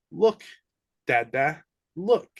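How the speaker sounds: put-on high, loud little-kid call; piping "look" like a small child pointing; excited toddler. Toddler points at the door and calls his dad, excited. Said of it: "He points at the door and goes".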